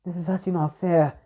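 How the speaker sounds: a hurt, pleading complaint; upset protest. Acted. Yariko upset at Naruto's pain.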